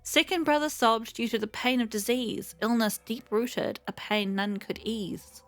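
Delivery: measured storytelling read of a lament; poem reading. Acted. Streamer reading the Foxian lament aloud, in measured poem recitation. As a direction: recite it like an old ballad.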